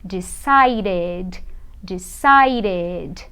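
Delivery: slow, drawn-out "decided" with a full "ded"; ED as extra syllable. Shown as a demonstration. Teacher models the past of decide, "decided" with clear last syllable. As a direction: stretch out every syllable of "decided". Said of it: "eu vou dizer decided".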